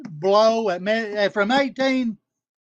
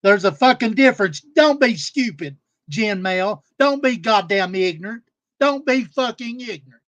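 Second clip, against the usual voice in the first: real anger, louder, hammering each don't; aggravated rant; 5 dB louder than usual. Real, not acted. Scolding Jen Mel about messaging minors, louder and angry. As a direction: let the frustration burst out loud. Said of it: "And yes, I'm aggravated".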